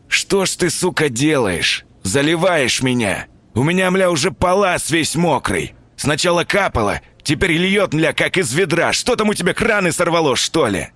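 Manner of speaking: high whining rant, held back from yelling; shrill wailing complaint. Acted. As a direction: whine it high and shrill, not shouting. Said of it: "визгливо запричитал, стараясь не орать на весь подъезд". (визгливое причитание)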